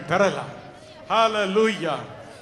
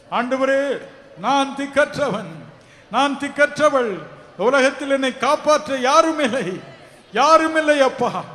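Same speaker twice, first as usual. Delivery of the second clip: raised, pleading cry for help; preacher voicing a helpless prayer; crying out to God; 4 semitones higher, 3 dB louder than usual. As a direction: plead as one with nobody left. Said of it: "என்று அவரை நோக்கி கதறுவீர்களா?".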